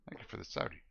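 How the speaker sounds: talking through a mouthful of food; words round a bite; chewing noisily. Real, not acted. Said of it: "Sorry I'm eating".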